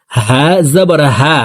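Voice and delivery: হা from the start of the throat. Shown as a demonstration. Teacher shows the letter's origin, হা made at the start of the throat. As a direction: sound হা right where the throat begins. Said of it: "হলকের শুরু থেকে পড়ব".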